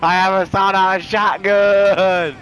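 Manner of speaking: slow, loud gleeful announcement; excited shout. Real, not acted. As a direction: show off the new weapon. Excited about finding a shotgun.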